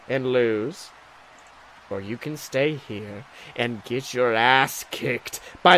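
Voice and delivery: wrestler promo. Acted. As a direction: growl threats at your rival.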